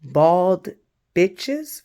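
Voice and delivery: loud mock scream, leaping upward; imitated scream. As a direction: mimic women screaming a jeer. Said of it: "voices are screaming".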